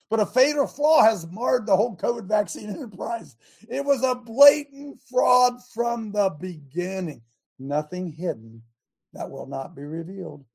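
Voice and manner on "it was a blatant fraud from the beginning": shouting. Real, not acted. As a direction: proclaim it like a charge. Preacher shouts the accusation.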